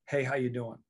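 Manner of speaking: quick, throwaway hello; casual greeting. Shown as a demonstration. Coach showing a mere hello, offhand and casual. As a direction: toss it off in passing, expecting no answer. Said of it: "that's hello".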